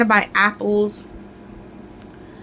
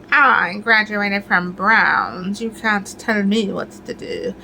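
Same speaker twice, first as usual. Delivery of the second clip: snooty comeback; slower than usual. Retold or imitated. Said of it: "That's how they talk".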